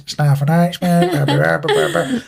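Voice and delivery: muffled mumble of a tannoy; shop announcement. Acted. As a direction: imitate an unintelligible staff announcement. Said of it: "when they're making announcements".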